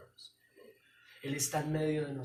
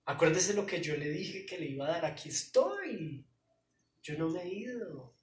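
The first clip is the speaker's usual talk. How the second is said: Jesus comforting Mary; 4 dB louder than usual. Acted. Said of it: "llamado de atención".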